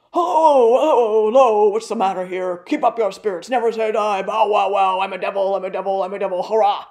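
high, loud cawing raven voice, hoarse and far off; hoarse distant raven. A narrator's reading. Raven Grip crows at the startled locksmith, hoarse, distant and loud. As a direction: croak it out like a devilish talking bird. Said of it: "in a voice so hoarse and distant".

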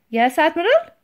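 high, loud response; obedient underling. A narrator's reading. Titch answers the admiral, obedient.

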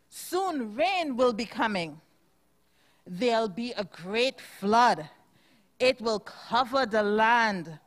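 storybook narration. A narrator's reading. Teacher reads picture book aloud.

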